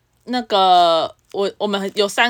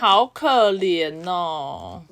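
mock pity; 2 semitones lower, much slower than usual.

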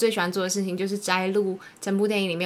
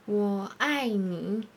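put-on Japanese accent; 4 dB quieter, much slower than usual. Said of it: "你模仿一下好不好？ 令很会学日本人讲中文".

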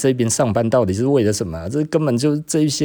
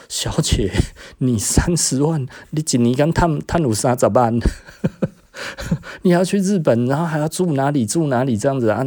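higher and louder, scoffing disbelief; incredulous retort; 6 semitones higher, 4 dB louder than usual. Retold or imitated. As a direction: needle her with mock outrage. Incredulous retort to rich coworker. (又高又响，不可置信地嘲讽)

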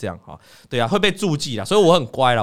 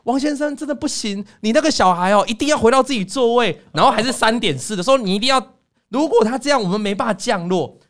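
stern flight attendant; 5 semitones higher than usual. Retold or imitated. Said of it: "那个星宇航空的空姐就说".

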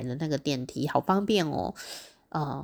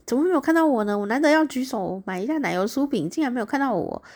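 high-pitched mock complaint; puzzled, mildly put-out inner voice; 不解抱怨; 6 semitones higher, faster than usual. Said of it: "我就想，". (略带委屈地高声嘀咕)

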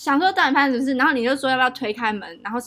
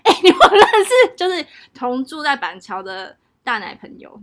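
exaggerated retold call; 8 dB louder than usual. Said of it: "我讲话就是很浮夸".

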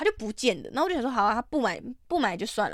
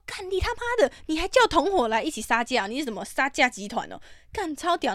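high, far-off mock rage, much higher; mock furious outburst; 4 semitones higher than usual. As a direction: rant at the haggling gang in a put-on high voice. Retold cursing at bargainers. (高亢的夸张怒骂)

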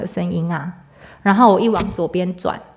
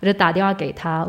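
usual speaking voice

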